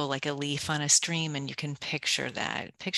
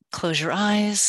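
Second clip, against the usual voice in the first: whispered guidance; 5 semitones higher, 5 dB louder than usual. Shown as a demonstration. Speaker guides the listener into meditation, whispering. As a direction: hush down to a breath.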